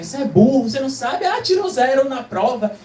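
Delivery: lightly acted classmates' jeering; mock bullying taunt. Classmates bully a kid at school, mock taunting. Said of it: "os colegas fizeram bullying com você".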